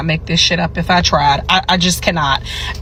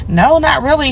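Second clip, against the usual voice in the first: mock patient voice; 7 semitones higher than usual.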